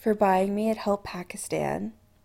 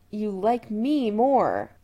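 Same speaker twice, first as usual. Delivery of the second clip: happily; slower than usual. A narrator's reading. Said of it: "Chris said happily".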